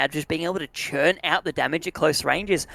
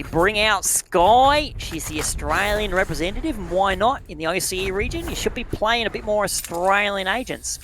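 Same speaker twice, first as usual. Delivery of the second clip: put-on broad Aussie accent, drawn out at first; playfully thick Australian voice; 3 semitones higher than usual. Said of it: "it's just an Australian accent".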